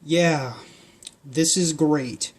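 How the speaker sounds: slow, flat sarcastic sigh; gloomy boy sighing it out. Acted. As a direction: deflate the words sarcastically. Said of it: "Gertrude sighed".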